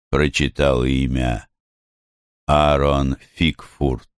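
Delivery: ordinary delivery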